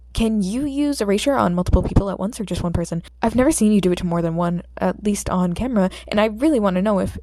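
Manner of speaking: loud, eager rush of questions; excited. Acted. Fanboy eagerly quizzes the hero, rushing his words. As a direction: fire off questions, thrilled.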